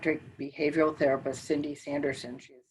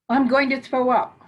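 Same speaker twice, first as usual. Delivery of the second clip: retold panic; 8 semitones higher, 5 dB louder than usual. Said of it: "in a full panic".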